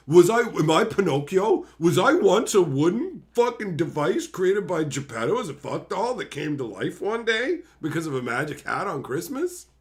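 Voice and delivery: mock existential crisis; mock self-doubt. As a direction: pile up the questions in mock bewilderment. Mocking someone doubting he is real.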